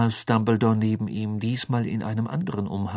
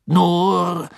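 sheepish; 7 semitones higher, 7 dB louder than usual. A narrator's reading. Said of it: "sagte Bagman verlegen lächelnd".

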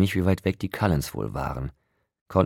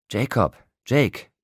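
high, drawn-out relieved call; erleichtertes Rufen; 7 semitones higher, 4 dB louder, slower than usual. A narrator's reading. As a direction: call out the name in relief, stretching it. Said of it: "riefen acht Stimmen erleichtert im Chor". (erleichtert und gedehnt gerufen)

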